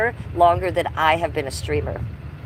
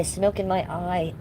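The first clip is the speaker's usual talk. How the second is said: quiet pained; 7 dB quieter, slower than usual. Real, not acted. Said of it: "that went in my eye".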